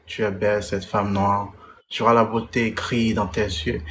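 declaimed love poem, phrase by phrase; poem recital. Acted. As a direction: recite with firm stresses and measured pauses. Récite son poème. (déclamation poétique)

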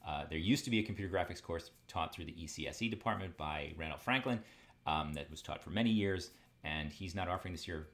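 fast, rushing, over-eager; racing along, all keyed up; wired up. Real, not acted. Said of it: "I'm all wired up first day of class, all excited".

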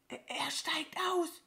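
stammering, urgent whisper; alarmed whisper. A narrator's reading. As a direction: whisper the warning as a frightened crow. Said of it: "flüsterte sie". (aufgeregt flüstern)

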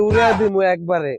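threatening shout. Acted. Gunman threatens.

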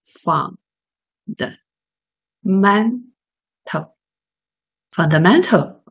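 "Fundamental，fundamental" said slowly and deliberately, stress on "men"; drawn-out teaching model of "Fundamental" for repeating; model pronunciation. Shown as a demonstration. Teacher modelling the word for students to copy, slow. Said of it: "会了吗？".

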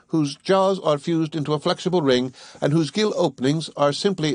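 scholarly Conseil. Acted. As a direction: recite it like a tidy young scholar. Conseil reciting the classification.

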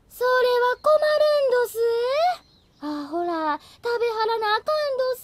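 a hammed-up, fake Kyoto-ben lilt; dubious Kyoto dialect. Miyako faking Kyoto dialect to dodge the question. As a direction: slip into a suspicious Kyoto accent on purpose. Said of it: "なんか怪しい京都弁だったけど".

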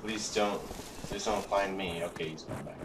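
hushed, hoping not to be seen; whispering while hiding. Real, not acted. Hiding from the dragon.

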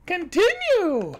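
loud, high, stretched-out command; demanding shout. Acted. Listener demanding the rest of the story, slow loud command.

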